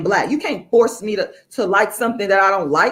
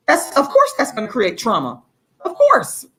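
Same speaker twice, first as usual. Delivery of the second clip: sarcastic of course; 3 semitones higher than usual. Real, not acted. Mock exclamation after a laugh.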